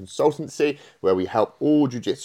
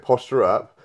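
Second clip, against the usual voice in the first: louder, higher imitation Welsh coaching call; Welsh accent; 4 semitones higher, 8 dB louder than usual. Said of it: "in your Welsh accent".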